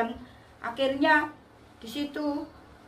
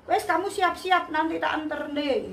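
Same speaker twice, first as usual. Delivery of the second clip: higher-pitched, mildly irritated boss, imitated; retold grumbling boss; 4 semitones higher than usual. Boss agreeing to drive at dawn, retold mild grumbling. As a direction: give in with a touch of retold annoyance. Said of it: "bosnya ngamuk-ngamuk".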